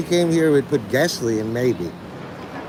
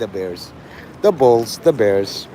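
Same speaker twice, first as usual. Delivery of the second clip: put-on lower-pitched caricature of a Chicago accent; mock Chicago accent; 6 semitones lower, slower than usual. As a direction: do a joking Chicago sports-fan accent. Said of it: "gotta mock it in a Chicago accent".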